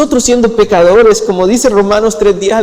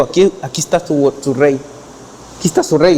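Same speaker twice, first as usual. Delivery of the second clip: a light, understated mock of a king's title; 3 semitones lower, 4 dB quieter, faster than usual. Pilato presenting Jesus to the crowd, lightly mocking. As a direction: sneer at the crowd, but only a hint of it. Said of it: "Como un tono así de burlesco".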